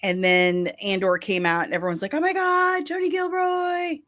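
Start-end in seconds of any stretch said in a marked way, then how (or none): 2.1-4.0 high-pitched, swooning fanboy gush; mock gushing fans. Fans raving over Tony Gilroy, mock gushing. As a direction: imitate everyone fawning, voice way up high.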